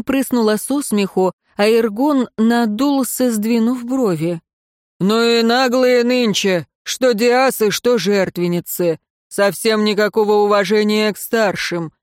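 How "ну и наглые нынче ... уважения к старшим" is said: grumbling bass voice. Acted. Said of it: "пробасил он".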